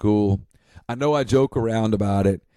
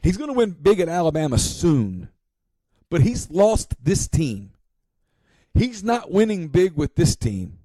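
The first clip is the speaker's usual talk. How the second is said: higher, deliberate restaged on-air verdict; slowed, punchy quote of his own prediction; exact retold quote; 7 semitones higher than usual. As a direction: repeat the radio call word for word, pointedly. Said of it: "This is exactly what I said".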